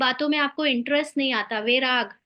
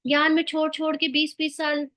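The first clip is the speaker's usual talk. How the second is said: mock astonishment; 3 semitones higher than usual. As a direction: act out someone marvelling at others. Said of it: "आश्चर्य की मात्रा भी नहीं".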